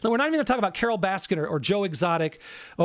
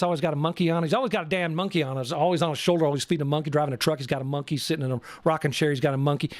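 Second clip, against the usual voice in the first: imitating Tim Stark; 4 semitones lower, much faster than usual. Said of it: "he's got talks like this".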